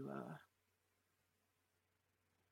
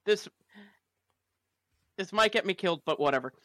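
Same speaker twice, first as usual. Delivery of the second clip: loud bravado; 3 semitones higher, 14 dB louder, faster than usual. Acted. Player loudly bluffing confidence.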